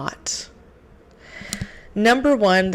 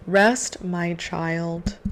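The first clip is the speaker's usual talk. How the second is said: calm soft divine voice; much slower than usual. Retold or imitated. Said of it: "God talks in a very calm, soft tone".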